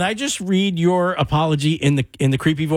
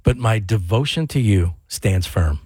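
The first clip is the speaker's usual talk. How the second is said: low, slow, creepy delivery; 6 semitones lower, slower than usual. Pretend. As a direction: read it like a horror villain. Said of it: "in that creepy voice".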